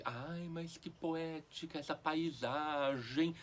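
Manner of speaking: slow, lightly gushing mock sigh of admiration. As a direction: imitate someone swooning over a view, drawn out. Acted quote of a gushing admirer.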